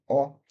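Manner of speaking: O said with lips very round; rounded vowel. Shown as a demonstration. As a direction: round the mouth at the front for a short O. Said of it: "very round mouth at the front".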